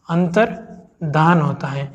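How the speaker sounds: अंतर्धान drawn out slowly, no य; slow correct form. Shown as a demonstration. Teacher slowly modelling अंतर्धान against अंतर्ध्यान. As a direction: say अंतर्धान slowly, dhaan without ya. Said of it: "ये शुद्ध शब्द है".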